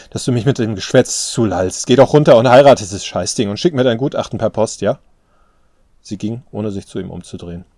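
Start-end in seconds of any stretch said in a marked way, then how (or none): 0.1-5.0 loud, scornful rant; angry outburst. A narrator's reading. Daughter telling father to leave her alone, angry outburst. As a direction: tell him off, voice raised. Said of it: "rief sie".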